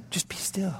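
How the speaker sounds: unvoiced, gentle whisper; whispered stillness. Preacher urging the congregation to be still, whispered. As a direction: hush them into stillness.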